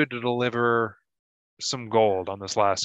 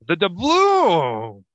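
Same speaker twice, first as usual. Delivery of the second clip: slow, loud and higher pirate growl; 6 semitones higher, 6 dB louder, much slower than usual. Acted. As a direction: stretch out the doubloons like a greedy pirate. Pirate savouring the treasure.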